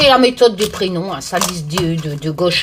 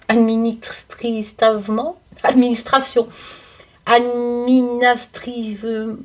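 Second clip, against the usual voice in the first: laughing through the word; 3 semitones higher, slower than usual. Real, not acted. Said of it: "Bon, laisse tomber".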